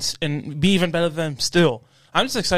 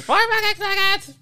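put-on squeaky kid voice; slower than usual. Quoting video voice.

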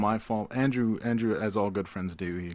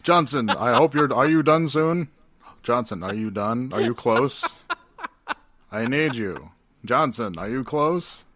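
mock impatient lover; 6 dB louder than usual. Mock Bell pleading with assistant.

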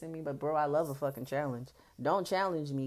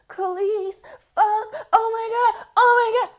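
loud, squealed mock ecstasy; hammed-up high-pitched cries of pleasure; high-pitched man; 16 dB louder, slower than usual. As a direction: imitate his voice shooting up high. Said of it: "he got a high-pitched voice".

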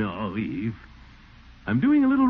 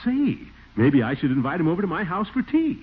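eager; 6 semitones higher than usual. Acted. Enthusing about the writer.

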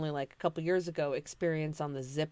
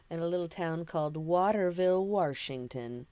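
regional Washington accent. Shown as a demonstration. Telling friends how locals say it, regional Washington accent. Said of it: "that's how you say it out there".

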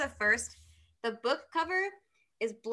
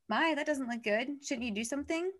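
taunting; 4 semitones higher, 3 dB quieter than usual. Acted. Beam of light mocks the prisoner's wound, taunting. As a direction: draw it out, needling lightly.

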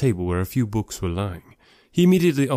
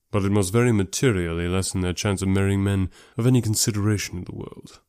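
measured, lightly lowered gentleman's voice; Darcy; 2 semitones lower than usual. Acted. Darcy on their chance of marrying, sober.

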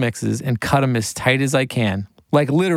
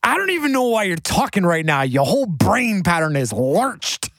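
rapper impression; 7 semitones higher than usual. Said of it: "and he goes".

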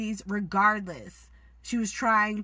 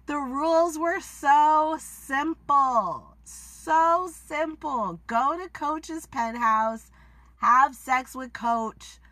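exasperated scolding; 3 semitones higher, 3 dB louder, slower than usual. Real, not acted. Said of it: "scolding Mercedes".

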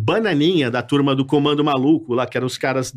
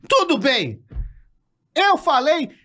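much higher, slow shouted scolding; Carlos Alberto angry; 13 semitones higher, much slower than usual. Pretend. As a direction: fake the furious boss yelling at him. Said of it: "igual a voz, o Carlos Alberto". (bronca gritada, aguda e lenta)

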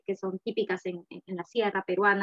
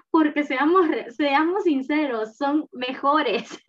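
mock insistence; 5 semitones higher, 6 dB louder, slower than usual. Real, not acted. Teasing claim that Peruvian churros are better.

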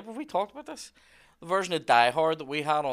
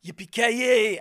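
imitating Bruce Willis; 9 semitones higher, 7 dB louder, much slower than usual. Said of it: "it's Bruce Willis going".

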